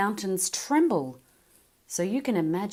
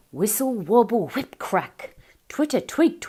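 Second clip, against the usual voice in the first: higher, louder chirpy calls; a lyrebird running through bird calls; 5 semitones higher, 8 dB louder than usual. Acted. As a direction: sing the words like birdsong. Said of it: "burst into a serenade of sounds".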